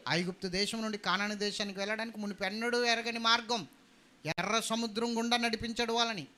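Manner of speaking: high, loud sermon voice; impassioned preacher building the story; forceful preaching. Real, not acted.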